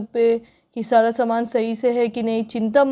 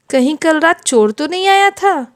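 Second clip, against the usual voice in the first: mother-in-law fears a thief came, louder alarmed repeat; louder worried repeat; 6 dB louder than usual. Acted. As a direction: say it again, louder and more alarmed.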